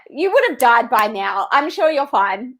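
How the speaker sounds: imitating breezy reassurance, lifted in pitch; mock dismissive comfort; Aussie no-worries attitude. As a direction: brush it off like a laid-back Aussie. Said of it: "It's such an Aussie attitude".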